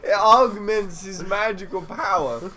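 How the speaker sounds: village elder voice. Acted. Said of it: "my voice changed again".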